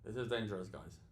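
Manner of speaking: sleepy, fading murmur; nodding off. Real, not acted. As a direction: drift off mid-sentence. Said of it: "I'm falling asleep".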